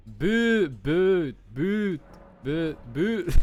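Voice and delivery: boot tried over with the vowel between u and ooh; testing the vowel. Shown as a demonstration. Practising the vowel of boot with friends. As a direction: try boot several times, searching for the vowel. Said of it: "it was like "ooh," but, like, in between them".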